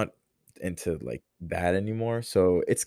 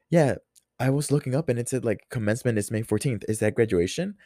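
mom's voice; 4 semitones higher, faster than usual. Retold or imitated. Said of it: "differentiate when it's me and when it's her".

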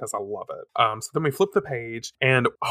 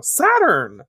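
calling out; 9 semitones higher, 5 dB louder than usual. Acted. Heroines calling friends' names.

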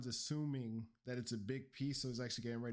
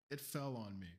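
dry deadpan. Acted. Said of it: "dry British humor".

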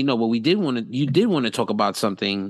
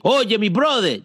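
high-pitched mock twang on "brother"; imitating a twangy greeting; imitated Black twang; 10 semitones higher than usual. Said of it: "it had a little black twang".

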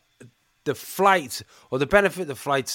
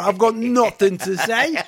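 laughing; 4 semitones higher, 5 dB louder than usual. Retold or imitated. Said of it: "sent him a message going".

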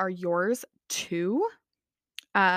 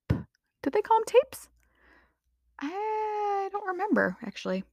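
aside whisper; 11 semitones higher than usual. Real, not acted.

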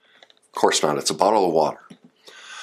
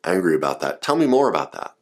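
empathetic response; 4 semitones lower, faster than usual. Shown as a demonstration. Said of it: "Here's how you respond".

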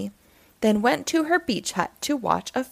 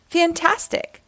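excited; 8 semitones higher than usual. Acted. Squirrel delighted at race.

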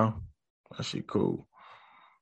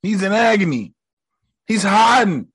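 mock ominous villain; 8 semitones higher, 3 dB louder than usual. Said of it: "And he's like".

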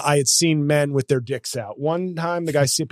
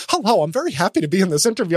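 Jim Parsons imitation; 3 semitones higher, faster than usual. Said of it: "actually talked like this in interviews".

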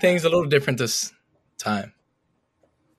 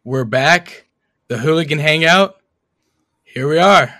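hyped intro; 7 dB louder than usual. Real, not acted. Opening the podcast with hype.

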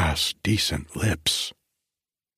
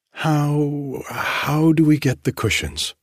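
put-on higher, lightly breathless girl; breathless demand; 8 semitones higher, 3 dB louder than usual. A narrator's reading. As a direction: demand it in a high, eager rush of feeling. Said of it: "she demanded breathlessly".

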